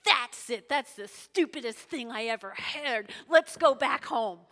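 mock huff, loud at both ends; ticked off. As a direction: storm off in acted annoyance. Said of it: "Naaman is ticked".

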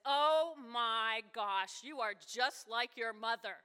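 a slow, drawn-out exasperated Oh my gosh; spouse's exasperated tone. Retold or imitated. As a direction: sigh it out like a fed-up spouse. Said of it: "with that tone of voice".

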